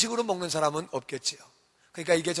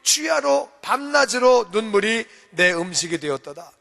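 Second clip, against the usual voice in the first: mournful reading. Shown as a demonstration. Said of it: "그냥 눈물만 흘리는데".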